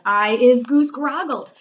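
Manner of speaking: loud, drawn-out howl; howling giant. A narrator's reading. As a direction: howl it slowly at full volume. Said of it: "howled the man hugger".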